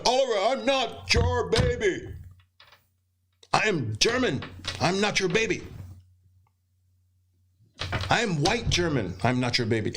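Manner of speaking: put-on German accent. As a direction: imitate the huge German trader protesting. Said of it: "He would say".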